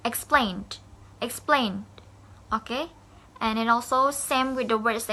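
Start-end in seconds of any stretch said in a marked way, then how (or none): 0.0-1.8 "Explained" said ex-PLAINED; stress on second syllable. Shown as a demonstration. Teacher modelling word stress for students, stressed "exPLAINED". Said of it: "at the middle of the word".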